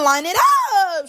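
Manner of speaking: high, drawn-out mock holler; mock call-out. Quoting the show's catchphrase, drawn-out call-out.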